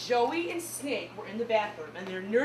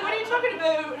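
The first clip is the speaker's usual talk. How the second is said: high Canadian accent imitation; mock Canadian accent; 8 semitones higher, 4 dB louder, faster than usual. Neighbours plead with Canadians, mock Canadian accent. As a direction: put on a Canadian 'aboot', pitched up. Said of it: "we're like".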